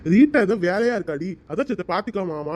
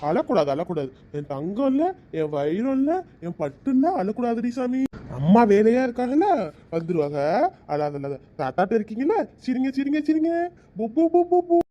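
put-on cooing to a baby. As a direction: hush and coax the crying baby gently. Grandfather soothing crying baby.

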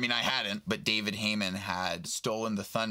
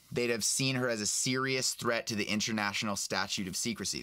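steady storybook reading, lightly voiced old man; reading a novel aloud. Actor reading Aberforth's lines to a fan host, lightly voiced. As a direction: read the passage to your friend. Reads Deathly Hallows aloud.

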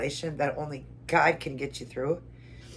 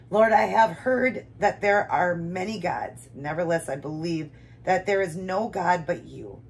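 emotional prayer; 2 semitones higher, slower than usual. Real, not acted. Reader pledges devotion to the Lord, emotional prayer. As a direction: read it as a heartfelt pledge, with long pauses. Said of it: "I'm sorry, God".

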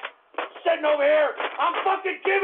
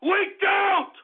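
angry shout; 4 semitones higher than usual. Real, not acted.

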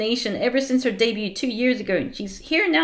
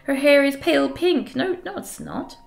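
much higher, slow gushing fangirl; gushing fan; 6 semitones higher than usual. Acted. Character swooning at the idol, higher gushing voice. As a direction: swoon over her.

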